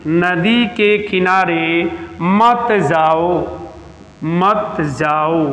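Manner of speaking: slow, with मत जाओ weighed and repeated; stress on मत. Shown as a demonstration. Teacher warns students away from the river, slowly stressing मत. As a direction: drag out the warning, leaning on मत. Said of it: "दूसरा उदाहरण".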